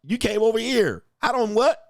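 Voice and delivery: hammed-up indignant dad pushing back; mock outraged man. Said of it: "He's like".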